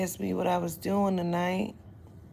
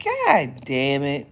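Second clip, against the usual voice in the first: slow curse; 4 semitones lower, 5 dB louder, much slower than usual. Retold or imitated. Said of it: "I said".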